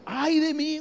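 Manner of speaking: high, loud frightened outcry; cry of lament. Acted. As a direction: cry out in sudden terror. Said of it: "Un, un grito de lamento".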